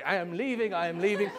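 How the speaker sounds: put-on old woman making a show of leaving; dramatic exit. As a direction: announce your exit with hammed-up insistence. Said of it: "quite dramatically".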